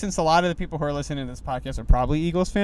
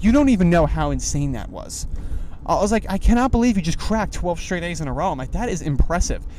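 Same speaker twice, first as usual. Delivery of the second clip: louder, amazed praise for the cook; excited praise; 3 semitones higher, 4 dB louder than usual. Retold or imitated. Telling the egg cook how impressed he was, excited and loud. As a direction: gush at him like he's a hero.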